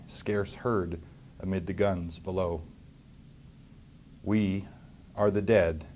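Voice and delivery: solemn, slow recital with long pauses; poem recital. Acted. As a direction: recite the war poem with gravity. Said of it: "It was called In Flanders Fields".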